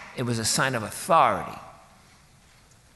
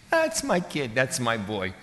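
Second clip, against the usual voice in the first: boastful father. Acted. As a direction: boast about your son to your friends.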